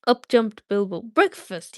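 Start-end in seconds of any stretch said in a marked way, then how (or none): 1.0-1.8 excited cry. Acted. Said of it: "he cried".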